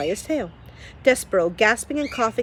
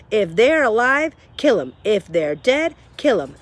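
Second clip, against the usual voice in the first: louder, hammering each kill; emphatic Cook; 2 semitones higher, 5 dB louder than usual. Acted. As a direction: pound out her rule. Cook's philosophy.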